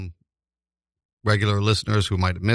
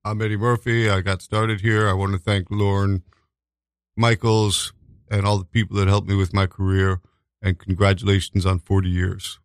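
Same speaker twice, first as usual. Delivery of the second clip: Eddie Murphy deadpan; 4 semitones lower than usual. Retold or imitated. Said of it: "he had, like, no affect".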